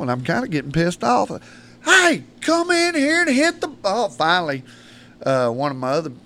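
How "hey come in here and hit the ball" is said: high, slow call across the field. Retold or imitated. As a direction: coach hollers for the kid to come bat, slow call. Coach calling kid to bat.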